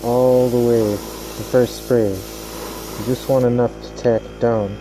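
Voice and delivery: muffled through a face mask. Real, not acted. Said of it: "Sorry my voice is muffled".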